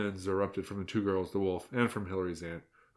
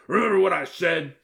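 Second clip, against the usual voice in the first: put-on hissing girl voice; 8 semitones higher, 6 dB louder than usual. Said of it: "the girl boss hissed".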